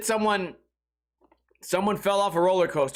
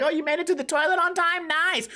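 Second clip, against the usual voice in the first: much higher, mocking congratulation; teasing friends; 9 semitones higher than usual. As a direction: tease him about making it in time. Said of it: "friends are congratulating me".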